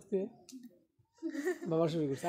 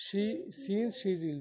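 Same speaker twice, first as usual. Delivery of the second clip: very slow, words spaced out; teacher modelling the since clause slowly; slow demo; 4 semitones higher, much slower than usual. Shown as a demonstration. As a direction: pronounce the clause slowly from the start. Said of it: "আমি sentence শুরু থেকে উচ্চারণ করব".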